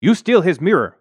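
put-on high, loud old Chinese woman; accusing old maid. A narrator's reading. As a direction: accuse him sharply as the maid. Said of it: "the woman said".

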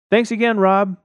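high, loud fake thanks; oily neighbor thanks loudly; smug neighbor. A narrator's reading. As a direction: slick sign-off.

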